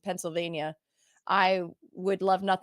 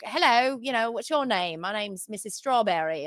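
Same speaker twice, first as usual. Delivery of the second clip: lightly hammed-up British greeting; bad British accent. Theater kid at Renaissance Fair, bad British accent. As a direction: introduce yourself in a playful fake British accent. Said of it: "talk in a bad British accent".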